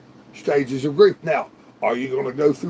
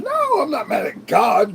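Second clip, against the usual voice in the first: raised, insistent no; firm denial; 7 semitones higher than usual. Real, not acted. Answering the question about God, raised and firm. Denies being mad at God.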